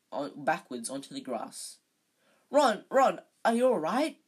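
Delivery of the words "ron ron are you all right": high, loud worried squeal. A narrator's reading. Hermione rushing to the fallen Ron, a high alarmed squeal. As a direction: squeal his name in alarm. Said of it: "squealed Hermione".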